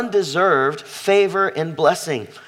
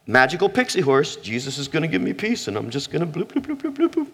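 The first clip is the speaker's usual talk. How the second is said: mocking silliness; 3 dB quieter than usual. Preacher mocks magical pixie-horse peace, silly and airy. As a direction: send up a dreamy, naive believer.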